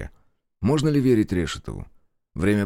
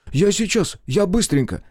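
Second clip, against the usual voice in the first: fussing and eager, much higher and louder; засуетился; 11 semitones higher, 4 dB louder than usual. Acted. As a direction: bustle off in a hurry. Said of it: "Интендант засуетился". (суетливо, высоко и громко)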